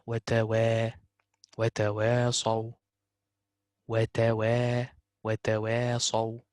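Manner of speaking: "wa tawasaw" with thin light alifs, slowly. Shown as a demonstration. Tutor to student, slowly modelling the light alif. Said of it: "should be simplified".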